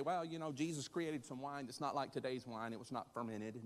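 soft, low mock objection; mock objector. Preacher quietly mocking a churchgoer's excuse. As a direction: mutter the wrong claim dismissively. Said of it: "Don't anyone leave here and say".

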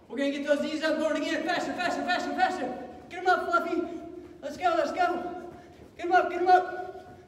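high, loud fired-up urging; pumped-up coach. Real, not acted.

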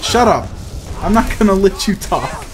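loud high shut up, half laughing; playful shout. Real, not acted. Gamer cutting off a talking NPC, loud and high. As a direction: shout him down before he talks.

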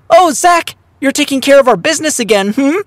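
high-pitched, smiling greeting. A narrator's reading. Girl greets a regular at the shop, smiling. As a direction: tease lightly through a smile. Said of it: "she immediately said with a smile".

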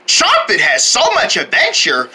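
emphatic commercial pitch; pretend ad read. Announcer sells Chomp It adventure, showy ad read.

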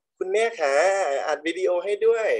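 a light polite call to mum; child asking mother. Acted. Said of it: "รบกวนบอก". (เสียงเด็กอ้อนขอคุณแม่เบาๆ)

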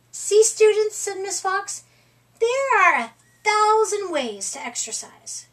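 rally the students cheerfully; calling out. Acted. Teacher calls out to class.

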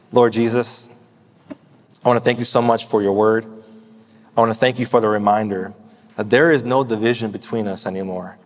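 a pastor's sincere closing prayer, unhurried. Real, not acted. Pastor closing the sermon by praying to Jesus, sincere prayer.

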